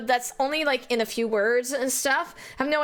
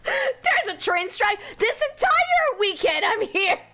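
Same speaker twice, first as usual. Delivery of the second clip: higher, drawn-out mock alarm; retold dismayed discovery; 8 semitones higher than usual. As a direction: act out finding bad news on arrival. Acting out reading strike news.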